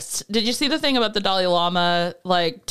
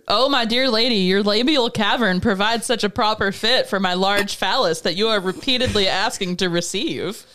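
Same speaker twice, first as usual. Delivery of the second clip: alien book narration. Retold or imitated. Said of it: "sounds like the Alien book".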